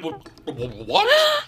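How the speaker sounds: stammering shocked what; sputter, then a shrill high what; stunned what. Retold or imitated. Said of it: "that's what I did. I went".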